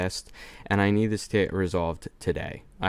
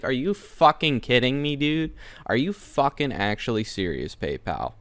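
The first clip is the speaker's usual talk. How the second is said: higher, incredulous outburst; exasperated disbelief; 4 semitones higher than usual. Real, not acted. Fed-up customer ranting about PayPal, incredulous. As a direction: throw up your hands in disbelief.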